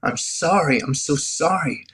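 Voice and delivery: remorseful begging, relived without full sobbing; imitating a desperate, repetitive apology; retold repeated pleading. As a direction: plead for forgiveness over and over, pitch lifted. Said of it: "saying over and over again".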